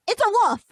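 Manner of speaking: high-pitched "wolf" said as "woof"; silent L in wolf. Shown as a demonstration. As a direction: triumphantly drop the L from "wolf". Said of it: "the L is silent".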